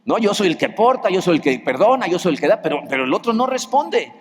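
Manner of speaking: a lightly voiced aggrieved complainer, pitch rising; complaining person. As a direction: someone venting at counselling, mildly whiny. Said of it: "La gente dice".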